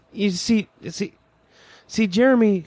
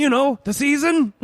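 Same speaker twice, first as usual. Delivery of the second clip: posh voice; 2 semitones higher than usual. Acted. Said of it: "Why do I bother with this posh voice?".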